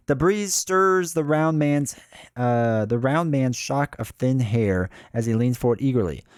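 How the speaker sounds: steady read-aloud narrator; story narration. A narrator's reading. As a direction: read the scene out evenly. Reads the game's story aloud.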